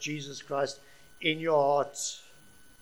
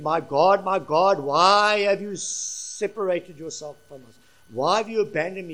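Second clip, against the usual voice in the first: anguished cry out; 6 dB louder than usual. Acted. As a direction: call out in anguish from the cross. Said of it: "he called out upon the cross".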